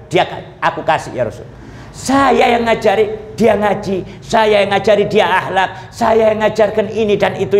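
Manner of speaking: an aged father begging the Prophet for fairness; pleading old father. Acted. (bapak tua memohon dengan sedikit suara memelas)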